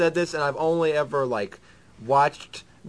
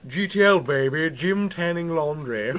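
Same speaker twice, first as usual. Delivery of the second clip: lightly put-on British Parliament voice; mock British accent. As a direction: say party slang like a British politician. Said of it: "talking to myself in British humor".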